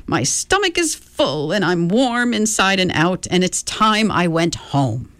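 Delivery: put-on chirpy, batty old lady; a hint of a dotty old woman; eccentric old woman. Mrs Whatsit content after eating.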